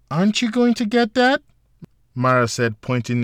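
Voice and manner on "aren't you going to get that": high gentle woman. A narrator's reading. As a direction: ask lightly, like a dream. Mara's high dreamlike voice.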